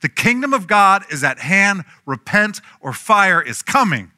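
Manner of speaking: high, loud preaching, slowing on the warning; fire and brimstone. Retold or imitated. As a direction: thunder it like a desert prophet. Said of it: "old school fire and brimstone sermons".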